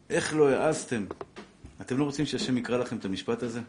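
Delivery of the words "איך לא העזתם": exclaimed challenge, voice lifted; quick, raised-voice reproach; indignant rebuke. Retold or imitated. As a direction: throw the rebuke out at the listeners. Thunders God's rebuke from scripture.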